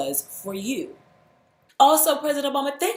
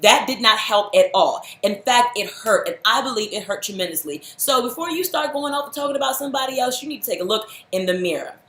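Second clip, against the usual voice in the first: scolding; 4 semitones higher, 6 dB louder than usual. Real, not acted. Scolding her friends' voters.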